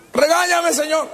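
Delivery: high, hammed-up cry of pleading; desperate plea. Peter begs the Lord to scold him, pleading loudly.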